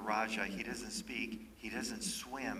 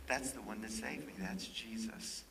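softer gentle recognition; tender child's voice; 6 dB quieter than usual. Retold or imitated. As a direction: say it simply, like a little boy. Child pointing at a picture.

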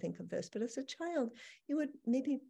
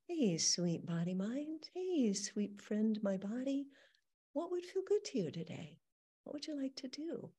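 tender; 4 semitones higher than usual. Shown as a demonstration. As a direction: speak to your body like a dear friend. Tenderly addressing own body.

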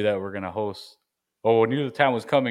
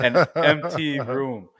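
cave echo; 4 semitones higher, 4 dB louder, much slower than usual. Real, not acted. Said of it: "You sound like you're in a cavern".

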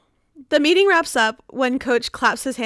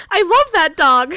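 mildly delighted, a little louder; happy; 2 semitones higher, 5 dB louder than usual. A narrator's reading. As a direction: gush a little, lightly voiced. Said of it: "Tree says happily".

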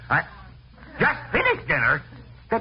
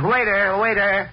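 calling out; slower than usual. Acted. Calling the waiter across restaurant.

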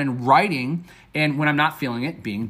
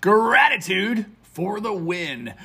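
slow, higher-pitched title reveal; topic announcement; 4 semitones higher, much slower than usual. Real, not acted. Host unveiling today's topic, drawn-out announcement. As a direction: stretch it out like a show title.

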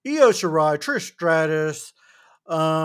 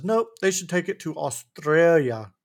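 put-on a shaky stab at an Australian accent; attempted Australian accent. Wrestling fan quoting Grayson Waller, botched Australian accent. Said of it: "What accent was that?".

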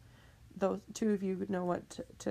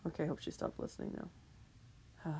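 soft, low aside; hushed aside; 4 semitones lower, 11 dB quieter, faster than usual. Real, not acted. Vlogger hoping Mother Nature stopped listening, hushed. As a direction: say it under your breath.

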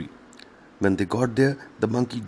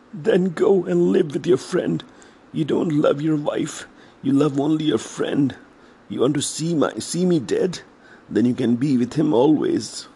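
scolding wife; 4 semitones higher than usual. Acted. Wife scolds her crocodile husband.

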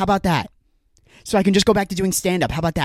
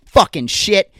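jolted by a spilled can; startled cursing; 2 semitones higher, 4 dB louder, slower than usual. Real, not acted. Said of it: "My Red Bull fell, and I'm on edge".

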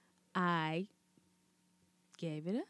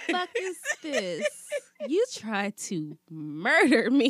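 mock outrage; 3 semitones higher than usual. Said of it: "You would have thought I was poisoned".

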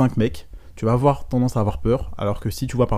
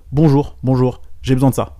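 louder, businesslike mock customer; brusque transactional greeting; 3 semitones higher, 6 dB louder than usual. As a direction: imitate a customer going straight to the request. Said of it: "ça brise le". (imitation d'un client expéditif, plus fort)

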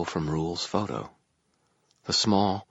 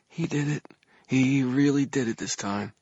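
put-on higher-pitched young man's voice; light young tenor; 9 semitones higher than usual. A narrator's reading. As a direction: keep it high, a light tenor. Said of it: "a light tenor of a young man".

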